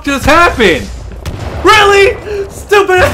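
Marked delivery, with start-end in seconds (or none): 1.6-3.0 angry yell. Real, not acted. Death, outraged yells.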